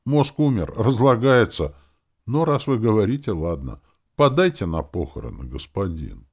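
high, loud plaintive corpse voice; sad zombie. A narrator's reading. Dead cabman begs his master, plaintive. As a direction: plead mournfully, falling at the end. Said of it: "печально ответил мертвец".

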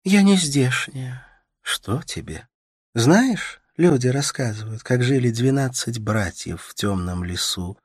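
put-on young woman half-singing a folk story to a sick man; Katerina telling a tale. A narrator's reading. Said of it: "Katerina tells a folk tale".

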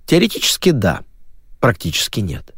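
ordinary delivery, nothing marked

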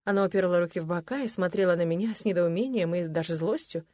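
normal talking voice

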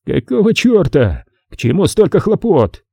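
a slowed, exasperated Nick; Nick's annoyed voice. A narrator's reading. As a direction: voice Nick grumbling at the fuss. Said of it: "послышался голос Ника Триггера".

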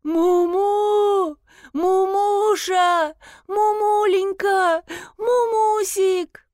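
high, slow, drawn-out monotone calls; monotonous calling. A narrator's reading. Owner calling for her lost cat in a monotone. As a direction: chant the pet names over and over. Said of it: "монотонно кричала".

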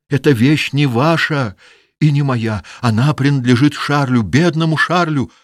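high, loud desperate imploring; pleading daughter. Acted. Daughter imploring her father to spare the locket. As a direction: beg him with all your strength.

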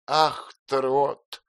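high, sighing "Ах, Трот" with a smile; aunt smiling wistfully, shaking her head. A narrator's reading. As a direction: smile sadly at him. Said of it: "задумчивой улыбкой".

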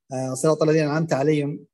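عليهم said fast with the ha swallowed; slurred reading. Shown as a demonstration. Teacher imitates a careless reciter swallowing the ha. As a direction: rush صراط الذين أنعمت عليهم and drop the ha of عليهم. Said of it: "ما يبين ولا يحقق خروج الهاء".

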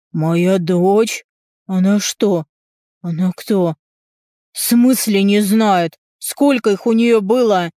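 father demands of the brother how many there were; outraged father. Acted. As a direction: build into a father's indignant rant. Father's outburst at pregnancy.

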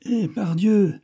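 high, hearty cry of recognition; exclamation de surprise. A narrator's reading. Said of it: "s'écria d'Artagnan". (s'exclamer, agréablement surpris)

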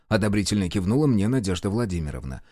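ordinary delivery, nothing marked

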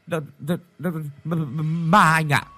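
high, stuttering, bursting out on ma; terrified stammer. A narrator's reading. Shaking friend blurting out that he saw a ghost, stammering. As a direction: choke on the word ghost. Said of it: "mồm lắp bắp nói nhanh đến níu cả giọng".

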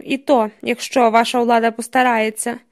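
«ваша» pressed a touch harder, with a pointed edge; stress on ваша. Acted. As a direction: lean on «ваша», mildly barbed. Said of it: "робить наголос на слові «ваша»". (наголос на слові «ваша»)

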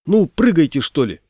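high, loud call, then easing; acted shout from a boat; impatient shout. A narrator's reading. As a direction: yell it to hesitant passengers. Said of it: "крикнули с него".

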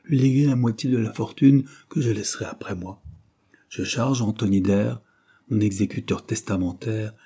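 lightly voiced dying uncle, urgent; a hint of a feeble old man pressing his point. Dying man dictates his will.

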